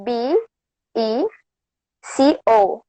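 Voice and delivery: letter by letter, pausing between each; spelling it out. Shown as a demonstration. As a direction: spell the words slowly, one letter at a time. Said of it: "can you spell it for me?".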